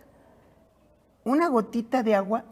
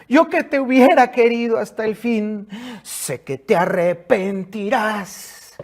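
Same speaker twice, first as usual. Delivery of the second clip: soap opera drama; 2 semitones higher, 4 dB louder than usual. Acted. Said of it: "la plañidera favorita de todas las telenovelas".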